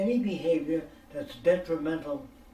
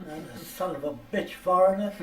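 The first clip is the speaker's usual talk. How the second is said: laughing; 3 semitones higher, 5 dB louder than usual. Real, not acted. Laughing while mocking.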